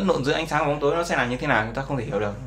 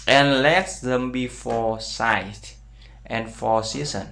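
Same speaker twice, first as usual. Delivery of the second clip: "And let them be for sight" read very slowly, each word separated; slow scripture reading; much slower than usual. Shown as a demonstration. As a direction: read the verse word by word like a teacher. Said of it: "Nói tiếp theo là". (đọc câu Kinh Thánh thật chậm, từng chữ một)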